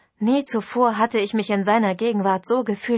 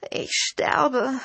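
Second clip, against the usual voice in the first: groaning; 5 semitones higher than usual. Acted. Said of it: "stöhnte ich".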